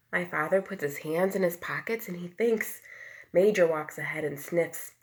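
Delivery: gentle read-aloud storytelling voice; reading to children. A narrator's reading. Teacher reads a book aloud to the class, gently. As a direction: read it like a picture book to little ones.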